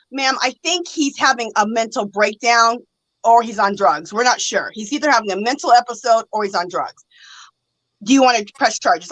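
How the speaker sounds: brief her like a patient policeman; officer's explanation. Retold or imitated.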